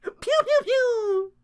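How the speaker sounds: high, loud, laughing battle cry; laughing shout. Retold or imitated. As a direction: cackle while firing away. Laughing, firing roman candle.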